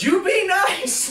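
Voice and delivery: high mock scolding mom voice. Mother scolding her grown son, high and slow. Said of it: "mom goes".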